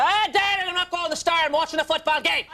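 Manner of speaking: lightly voiced dad watching the game; mock irish dad, annoyed.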